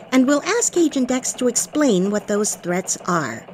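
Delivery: bright newsroom anchor read; elf news reporter. Acted. Elf anchor opens the newscast.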